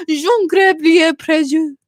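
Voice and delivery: drawn-out, hammed-up French name; French accent. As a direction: savor the French name, slowly. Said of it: "French accent".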